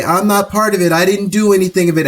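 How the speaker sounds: defensive denial. Retold or imitated. People always wanting to disown complicity, mock defensive. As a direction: plead innocence as a mocked objector. Voicing people who deny their part.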